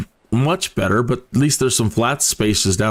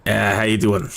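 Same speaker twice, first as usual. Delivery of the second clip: little sensor voice; 3 semitones lower than usual. Acted. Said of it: "my little friend down here".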